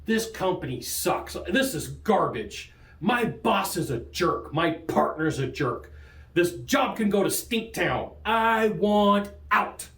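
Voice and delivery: slow, deliberate mock griping, building at the end; inner griping. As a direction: spell out each grievance slowly, then drag out the last words. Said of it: "the inner word tracks".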